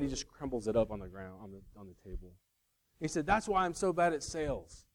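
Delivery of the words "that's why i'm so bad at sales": lightly imitated exasperated salesman, pitched up; half-hearted comic impression, a bit higher; Chris Farley. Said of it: "he does a lot better job of it".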